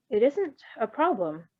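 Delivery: slow, even and unhurried; calm. Acted. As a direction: reassure him without fuss. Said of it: "Bluebird said calmly".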